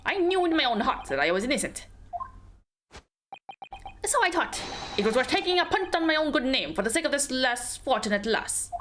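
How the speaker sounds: lilting, earnest Irish gentleman; Irish witness. Acted. Irishman telling the lord he risked his name, earnest. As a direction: plead honourably as an Irishman in court.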